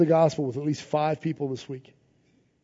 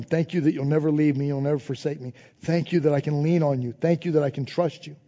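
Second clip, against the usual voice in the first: softer, lower, intimate prayer; quiet prayer; 4 semitones lower, 5 dB quieter than usual. Shown as a demonstration. Preacher showing how to talk to God, quiet prayer. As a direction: speak to God gently. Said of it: "Talk to Him".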